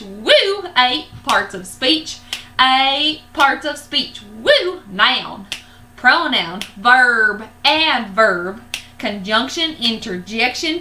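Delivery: lightly drawled cowboy rap chant. Shown as a demonstration. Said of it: "I'll do it in cowboy voice".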